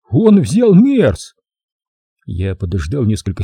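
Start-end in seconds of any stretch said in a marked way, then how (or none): 0.1-1.3 high, slow whistling lisp. Acted. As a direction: draw it out in a whistle. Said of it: "Снова свистящим голосом".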